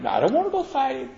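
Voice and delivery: high, fast, panicky no; scared refusal. Retold or imitated. Frightened soldier refusing to fight, high and fast. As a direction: blurt it out in fear.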